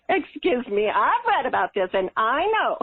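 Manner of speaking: hammed-up indignant retort; mock arguing. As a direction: act out a know-it-all objection. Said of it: "habit always of arguing with my committees".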